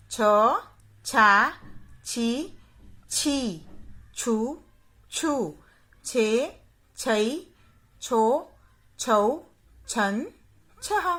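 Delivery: क, का, की... each syllable spoken slowly and clearly, with short and long vowels kept apart; बारह खड़ी को साफ़-साफ़ बोलना; reciting barakhadi. Shown as a demonstration. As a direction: drill each sound of क like a teacher to children. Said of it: "उसका उच्चारण करके बताऊंगी".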